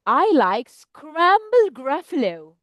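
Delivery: slow, deliberate mouse announcement; storybook mouse, slowly teasing; sly mouse. Acted. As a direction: draw it out to savour the threat. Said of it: "this smart mouse says".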